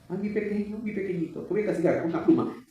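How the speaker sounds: a hint of a cooing mother; mock soft mother. Pastor mocks a mother scolding her son too sweetly, cooing. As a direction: coo gently with a feather-light threat. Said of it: "¿Y usted qué hizo?".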